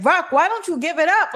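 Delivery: high, pleading call to Rock; mock plea to Rock. Fan calling out to Rock, high and pleading. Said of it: "I'm like".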